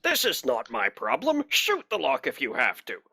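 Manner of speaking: a hint of an impatient official; arbitrator impression. Fake arbitrator dismissing the guard's excuse, mildly impatient impression. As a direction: brush off the excuse as a boss would. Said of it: "do a good enough impression".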